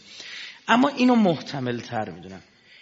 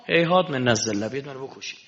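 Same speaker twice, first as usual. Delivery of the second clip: defiant Imam; 6 semitones higher, 9 dB louder than usual. Acted. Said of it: "دم شمشیره دیگه ها".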